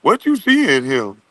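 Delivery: high, imitated pestering questions; mock questioning. Men asking girls why him, high mock questioning. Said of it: "some niggas asking some girls".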